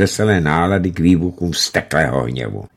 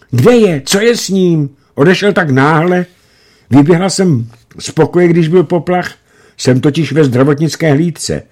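put-on anxious girl; 8 semitones higher, 5 dB louder than usual. A narrator's reading.

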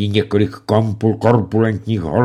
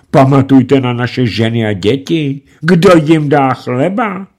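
louder, higher, softening plea; piteous; 7 semitones higher, 7 dB louder than usual. A narrator's reading. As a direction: appeal to pity. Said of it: "volal lítostivě". (lítostivě volat)

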